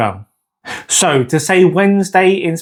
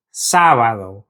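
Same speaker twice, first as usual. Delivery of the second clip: lower-pitched "Sábado", leaning on "Sá"; stress on first syllable; 4 semitones lower than usual. Shown as a demonstration. Teacher modelling for learners, "Sábado" stressed on "Sá". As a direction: press on "Sá" and let "bado" drop. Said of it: "we need to stress that first syllable".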